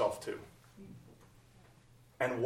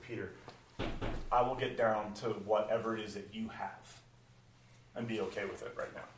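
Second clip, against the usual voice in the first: softer, tender reassurance; gentle Jesus; 3 semitones lower, 5 dB quieter than usual. Acted. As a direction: reassure him quietly. Jesus speaking gently to Peter.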